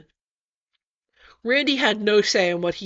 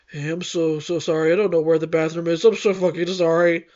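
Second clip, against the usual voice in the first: flustered apology; 6 semitones lower than usual. Acted.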